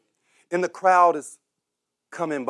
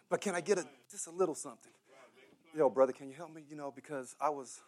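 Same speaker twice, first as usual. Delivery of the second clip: beggar's plea; 6 semitones lower, 19 dB quieter, faster than usual. Retold or imitated. Preacher voicing a beggar's plea.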